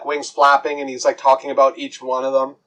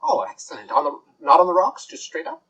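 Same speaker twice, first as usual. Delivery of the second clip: fussy fairy bartender; 3 semitones higher than usual. Acted. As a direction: lean in and breathe it like a conspiring fairy. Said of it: "he's like".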